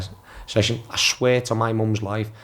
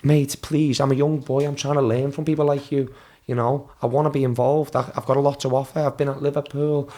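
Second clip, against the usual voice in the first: higher, put-on pleading to the manager; fake innocent pleading; 4 semitones higher than usual. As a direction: play the hurt young boy. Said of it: "I'm even more selling it now".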